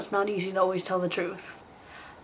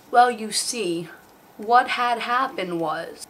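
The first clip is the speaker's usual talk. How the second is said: stalling excuse; slower than usual. Acted. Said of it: "saying where you always know".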